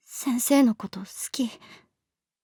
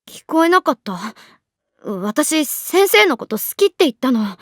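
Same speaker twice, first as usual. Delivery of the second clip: raised voice; 5 dB louder than usual. Acted. Girl repeats her confession louder.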